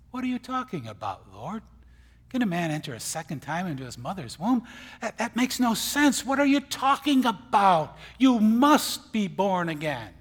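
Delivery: loud, high, incredulous outcry; Nicodemus protesting. Retold or imitated. Nicodemus protesting to the Lord, loud and incredulous. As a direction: rise to a baffled shout. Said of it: "He says".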